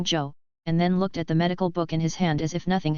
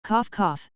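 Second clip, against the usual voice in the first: fake cough; 2 semitones higher than usual. A narrator's reading. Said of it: "laughed out loud after seeing".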